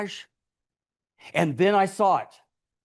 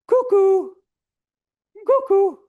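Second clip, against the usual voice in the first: much higher and louder bird-call cuckoo; cuckoo ringtone; 13 semitones higher, 7 dB louder than usual. Acted. Narrator imitating a Walmart ringtone, high bird call.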